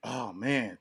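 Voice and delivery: normal talking voice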